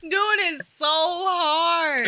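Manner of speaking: cracking up mid-sentence; laughing. Real, not acted. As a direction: squeeze it out through laughter. Laughing while retelling.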